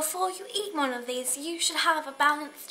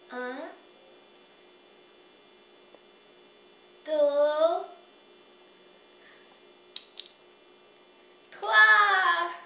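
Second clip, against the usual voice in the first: building count; 3 semitones higher, 8 dB louder, much slower than usual. Acted. Counting down to the reveal.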